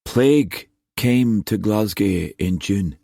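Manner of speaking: slow, dull delivery. Acted. Nephew breaking plague news to his uncle, dully. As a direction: give the news slowly, drained of spirit. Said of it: "Cullum said dully".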